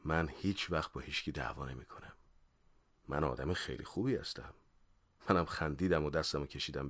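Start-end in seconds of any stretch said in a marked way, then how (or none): 0.0-4.5 lower, softer, kindly reassurance. Acted. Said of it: "با مهربونی گفت". (با مهربونی و ملایمت)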